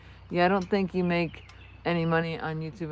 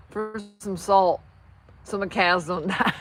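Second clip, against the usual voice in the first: Southern neighbor. Retold or imitated. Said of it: "And he said".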